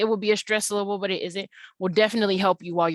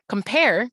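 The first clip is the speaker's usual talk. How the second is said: "Compare" with COM cut short, PARE stretched; second-syllable stress; 2 semitones higher, 4 dB louder than usual. Shown as a demonstration. Teacher demonstrating the iamb, stressed end of "Compare". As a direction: clip the start of "Compare" and hold the end. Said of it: "we can hear in the beginning that C O M".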